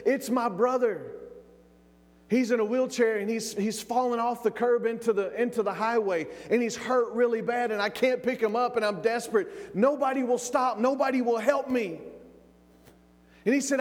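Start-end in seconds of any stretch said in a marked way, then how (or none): 0.1-12.0 put-on high-pitched urgent pleading of a boy; desperate plea. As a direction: plead for help, voice held high. Boy pleading for injured brother.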